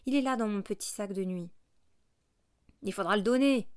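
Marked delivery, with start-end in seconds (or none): 2.8-3.7 firm demand. A narrator's reading. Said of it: "repartit la voix d'homme".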